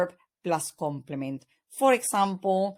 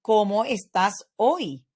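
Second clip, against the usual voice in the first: louder question, pitch peaking on "hoy"; question intonation; 5 dB louder than usual. Shown as a demonstration. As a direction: ask it clearly, lifting the voice on "hoy". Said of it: "use the right intonation".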